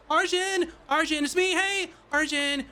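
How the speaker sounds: calling out. Acted. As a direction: yell his name to get him out. Knocking, calling the tailor.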